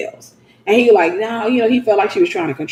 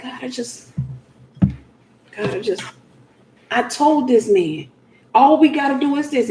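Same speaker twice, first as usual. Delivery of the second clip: breathy, worn-out plea that builds into insisting; pleading in frustration; exasperated; 2 semitones higher, 4 dB quieter than usual. Acted. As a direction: sigh to God, then complain with slow stress. Acts out a frustrated wife praying.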